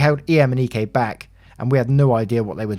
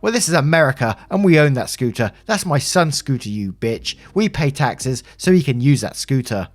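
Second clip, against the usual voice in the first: higher-pitched, indignant mother; acted furious scolding; angry tirade; 4 semitones higher than usual. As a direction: berate them in outraged indignation. Mother berates the narrator.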